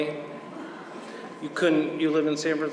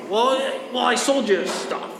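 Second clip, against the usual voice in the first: high-pitched, stammered mock protest; imitated panic; 7 semitones higher than usual. Boo argues for his reference, high mock panic. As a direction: imitate a flustered caller grasping for an argument. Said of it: "He calls me up all panicked".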